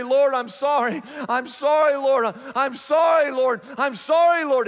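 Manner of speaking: tearful pleading. Retold or imitated. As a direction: beg forgiveness, a touch of tears. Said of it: "and he's crying".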